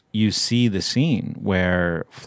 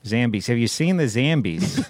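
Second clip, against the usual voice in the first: playful flat-vowelled Chicago accent. Shown as a demonstration. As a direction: ask it like a Chicagoan. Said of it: "say things in a Chicago accent".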